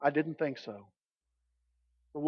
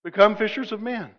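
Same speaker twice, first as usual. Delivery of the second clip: louder, higher playful Tennessee twang on yuns; mock Tennessee Jesus; 3 semitones higher, 4 dB louder than usual. Pastor imagines Jesus speaking like Tennessee folks, with a playful twang. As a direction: give Jesus a joking mountain accent. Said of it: "Jesus, if he was in Tennessee".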